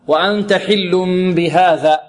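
measured tajweed recitation; Quran recitation. Shown as a demonstration. Teacher models the verse for students, Quran recitation.

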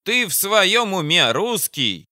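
high, indignant fat commander; incredulous outburst, pitched high; exclaiming. Acted. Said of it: "воскликнула Бадая".

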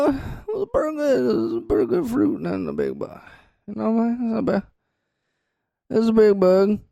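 lightly voiced rustic farmer; hillbilly farmer. Co-host plays a farmer answering a bug question, lightly voiced. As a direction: play a folksy farmer answering, pitch jumping up. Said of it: "question for the farmer".

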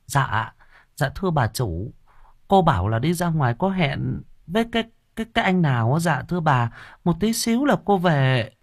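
high, hesitant servant's voice; timid maid. Acted. Maid nervously answers her mistress in a high, hesitant voice. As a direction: stammer it up high like a flustered maid.

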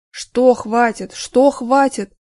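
slow slurred snapping back; drunken snarl. Acted. Drunk man snapping at coworker, slow and slurred. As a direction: snarl it back, tongue barely moving. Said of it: "огрызнулся тот".

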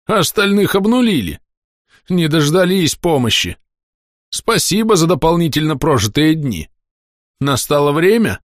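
high, grim soldier's voice; a weary officer facing the end; corporal's voice. Acted. Corporal asks the narrator if his time has come, grim.

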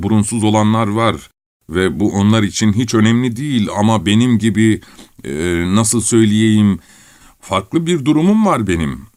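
lightly voiced, halting explanation; self-important Kovalev. Kovalev explaining his special standing, lightly voiced and halting. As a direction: search for a delicate way to plead your case.

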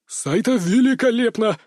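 high, excited director's praise; out-of-breath director. A narrator's reading. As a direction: gush like a director rushing up. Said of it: "подскочил ко мне запыхавшийся режиссёр".

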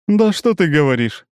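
high, loud, menacing drawl. A narrator's reading. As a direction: stretch it out, threatening. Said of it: "нехорошо тянет Цири".

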